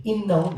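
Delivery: "Innahum" punched out high; emphatic punctuation. Shown as a demonstration. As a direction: declare "Innahum" as a punctuated oath.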